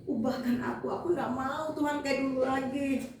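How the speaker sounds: lightly acted crying prayer; mildly whiny, retold lament in prayer; imitated weepy prayer. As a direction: re-enact a tearful plea to God. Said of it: "saya kalau berdoa begitu saya nangis".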